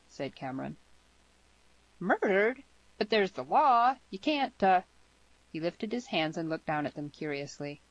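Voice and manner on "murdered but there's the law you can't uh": put-on high, loud, dismayed girl; aghast, stretched-out objection; shocked protest. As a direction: protest slowly, pitch swinging up.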